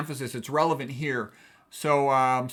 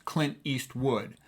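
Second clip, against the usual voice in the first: Clint Eastwood slowly, each syllable weighted; triple stress; 4 dB quieter, much slower than usual. Shown as a demonstration. Teacher showing macho actor names, Clint Eastwood slowly triple-stressed. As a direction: stretch out Clint, East and wood as three beats. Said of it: "these macho Hollywood actor names".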